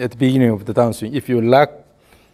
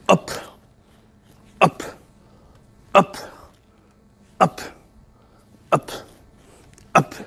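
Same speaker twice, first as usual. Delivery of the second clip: higher, brisk up cues; rhythmic coaching calls; 5 semitones higher, 4 dB quieter than usual. Shown as a demonstration. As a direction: snap out each up. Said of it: "the emphasis on the up action".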